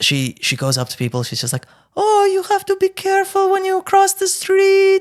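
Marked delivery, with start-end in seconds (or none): 2.0-5.0 put-on very high mother voice with slight Russian accent. Impersonating my mom talking to people: very high voice, slight Russian accent. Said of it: "to do my mom, you got to go like two octaves up. You know, you go and a bit of a Russian accent".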